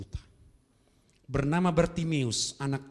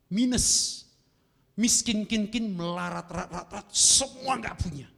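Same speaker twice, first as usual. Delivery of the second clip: mock wail; 7 semitones higher, 4 dB louder than usual. Preacher mocks poverty, voice shifted.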